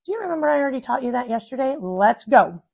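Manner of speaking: quick, brisk hurry-up; impatient push. Retold or imitated. Mom hurrying her daughter to keep up, fast. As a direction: rush the child along impatiently. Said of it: "I'm coming at it like".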